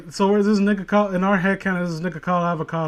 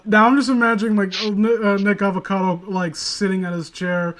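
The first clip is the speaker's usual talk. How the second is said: excited, laughing; 3 semitones higher, 5 dB louder than usual. Real, not acted.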